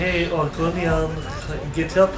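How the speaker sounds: hammed-up pleading in faked French; mock French accent. Ambassador begging dragon son to stop, mock French accent. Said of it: "Go back to French".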